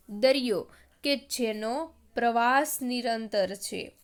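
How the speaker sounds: slow, deliberate verse with spaced phrases; measured classroom poem reading; poem recitation. Acted. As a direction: recite line by line, lifting the opening call.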